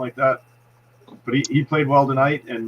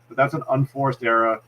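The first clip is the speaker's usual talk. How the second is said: slipping into a Boston accent; Boston accent, error said as errah. Real, not acted. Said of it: "that was a Boston accent right there".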